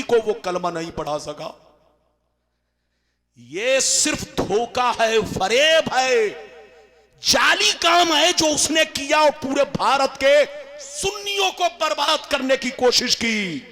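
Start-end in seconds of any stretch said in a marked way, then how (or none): 3.4-13.7 rising furious preaching; angry denunciation. Real, not acted. Denouncing a rival.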